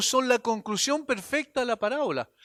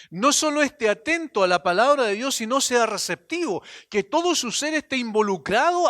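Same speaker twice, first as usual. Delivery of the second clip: louder preaching push on "No solo esté atento"; louder emphatic restatement; 3 semitones higher, 5 dB louder than usual. Shown as a demonstration. Preacher urging listeners to be receptive, louder and emphatic. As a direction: drive the point home for the congregation.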